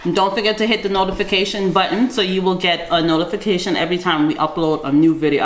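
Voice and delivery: chewing bread while talking; words round a mouthful; mouth full. Real, not acted. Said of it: "I'm so sorry, my mouth is full".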